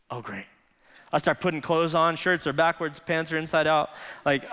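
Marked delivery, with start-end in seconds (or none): 0.1-0.5 low, soft aside; underwhelmed dread. Retold or imitated. Husband reacting as wife's water breaks, quiet dread. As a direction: let it sink out, quiet and low.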